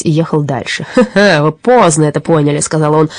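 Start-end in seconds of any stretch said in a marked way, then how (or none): 0.9-2.6 laughing robber. A narrator's reading. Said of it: "смеясь".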